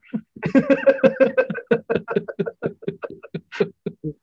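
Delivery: loud, very high-pitched laughing fit; laughter. Real, not acted. Host laughing at George's retold seat complaint, high giddy laughter. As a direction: crack up at your own retelling.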